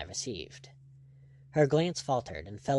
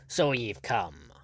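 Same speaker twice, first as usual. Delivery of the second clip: gruff planter greeting; slower than usual. Acted. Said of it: "the deputy governor hailed him".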